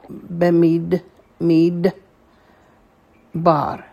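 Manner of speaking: bemid, mid, bar read as separate beats; syllable by syllable; split into syllables. Shown as a demonstration. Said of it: "The shva that is under the dalet is silent".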